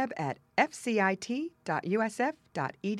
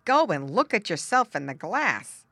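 haughty tomcat, louder; snooty bored cat; 3 semitones higher, 7 dB louder than usual. Acted. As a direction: look down your nose as a proud cat. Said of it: "said the tommy cat haughtily".

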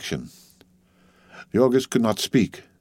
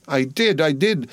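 pitched up, terrified wail; 5 semitones higher than usual. Acted. A frightened boy cries out to his angry brother, wailing. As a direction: plead in terror, shrinking away. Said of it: "wailed Stanislavus".

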